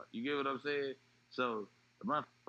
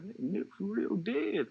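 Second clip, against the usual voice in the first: higher and louder insistence; retold urgent news; 10 semitones higher, 6 dB louder than usual. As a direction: friend insists the news is true. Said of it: "He like".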